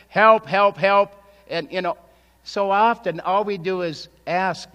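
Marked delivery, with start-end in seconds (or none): 0.1-1.1 louder, higher cries of help; mock a desperate plea; pleading cry for help.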